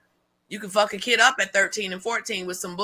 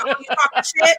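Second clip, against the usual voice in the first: mock sass, voice raised high; mock sassy comeback; 5 semitones higher than usual. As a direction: play the petty one calling someone out. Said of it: "'Cause we be like".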